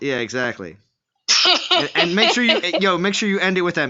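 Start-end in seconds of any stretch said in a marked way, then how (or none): 1.7-3.9 laughing. Real, not acted. Laughing while explaining.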